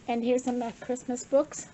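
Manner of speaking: slightly winded while talking; out of breath. Real, not acted. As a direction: speak a little out of breath. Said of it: "I'm out of breath here".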